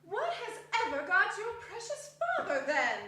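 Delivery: laughing, lightly voiced mother; a hint of a flustered mum; fussing mother. Mrs Cratchit frets to her children, half laughing. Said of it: "said Missus Cratchit".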